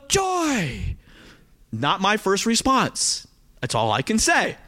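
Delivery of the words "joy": high, drawn-out cry of joy; put-on burst of joy; mock joyful exclamation. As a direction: exclaim it high, as an unlikely reaction. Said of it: "How many of you would go".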